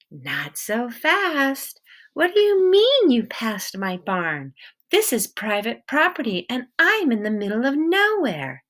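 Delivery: a suspicious woman with a hint of an accent, guarding her barn; stern wary woman. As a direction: hold your ground and interrogate him. Woman questions Peter.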